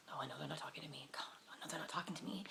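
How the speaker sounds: low, hushed whisper to oneself; whispered aside. Retold or imitated. Dad on the bus whispering to himself, retold. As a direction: whisper it privately in disbelief.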